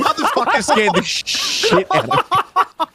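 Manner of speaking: startled yelp. Real, not acted. Jump scare in game.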